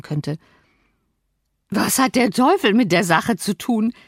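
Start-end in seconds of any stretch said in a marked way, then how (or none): 1.7-3.9 giggling. A narrator's reading. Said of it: "kicherte Linton".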